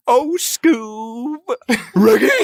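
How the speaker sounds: high, loud cartoon dog voice; Scooby-Doo voice. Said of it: "the speaker doing his Scooby-Doo impression".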